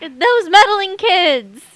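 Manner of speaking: loud, slow cartoon villain shout; Scooby-Doo villain. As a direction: growl it like a caught cartoon crook. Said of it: "he would be like".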